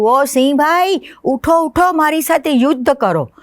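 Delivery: a tiny mosquito yelling up at the lion to wake him; mosquito's loud call. Acted. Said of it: "મોટી બૂમ પાડીને કીધું". (મચ્છરની મોટી બૂમ, ઊંચા અવાજે)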